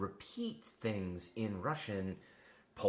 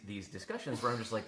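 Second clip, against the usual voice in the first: normal talking voice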